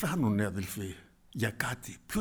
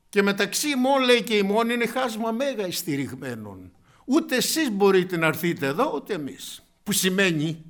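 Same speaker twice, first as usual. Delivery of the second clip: loud, high, fervent sermon voice; preaching at full force; 7 semitones higher, 8 dB louder than usual. Acted. Preacher telling the congregation of the rich man, fervent loud preaching. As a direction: preach it out to the whole church.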